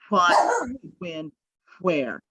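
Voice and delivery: What, when, where with a puff of air on each wh; breathy wh drill. Shown as a demonstration. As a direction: blow the paper on every wh. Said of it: "hold it here to go".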